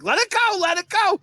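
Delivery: high-pitched urgent plea; imitating pleading wife. Wife calming her raging driver, high urgent plea. Wife urging him in retold scene.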